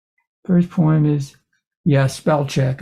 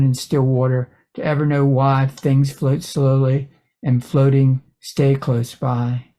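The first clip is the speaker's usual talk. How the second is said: measured reading with pauses between phrases; poem reading. Acted. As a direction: read your poem, phrase by phrase. Reads a poem aloud.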